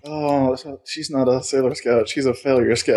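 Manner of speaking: low, soft whisper of the joke; secretly repeating the insult. Retold or imitated. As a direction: savour the line under your breath.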